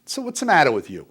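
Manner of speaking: father's loud shaming demand; dad's booming question. Retold or imitated. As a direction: bark it across the table like a big stern dad. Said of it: "he'd say".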